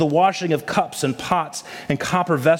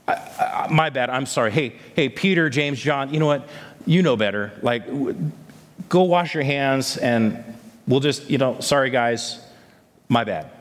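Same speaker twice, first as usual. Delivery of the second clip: halting, stammered pretend apology; mock sheepish apology; 3 semitones lower than usual. Preacher imagining Jesus apologizing to the Pharisees, mock sheepish. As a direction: play at backing down awkwardly, in fragments.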